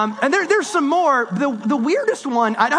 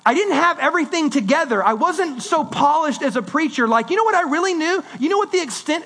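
paraphrased Paul; 4 semitones higher than usual. Retold or imitated. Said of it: "What he was saying was like this".

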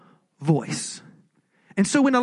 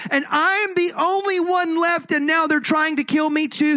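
self-pitying complaint; 3 semitones higher than usual. Retold or imitated. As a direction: play Elijah whining, lightly. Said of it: "He sounds like he's having a pity party".

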